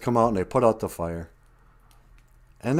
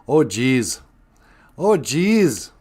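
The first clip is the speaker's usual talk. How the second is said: Minnesota oh jeez; 3 semitones higher, 4 dB louder, much slower than usual. Retold or imitated. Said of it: "they just say".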